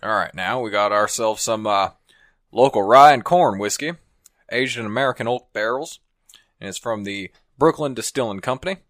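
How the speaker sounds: easygoing cowboy storyteller. Pretend. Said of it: "Do a cowboy thing".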